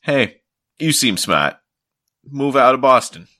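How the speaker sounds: lightly hammed TV pitchman; a hint of an ad announcer; mock ad pitch. Mock ad voice telling Boston viewers to come. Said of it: "it's like".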